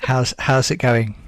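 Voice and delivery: slow, put-on co-host voice; John. Standing in for the missing co-host, mock impersonation. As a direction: pretend to be the rich-voiced co-host. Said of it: "You pretend to be John for a second".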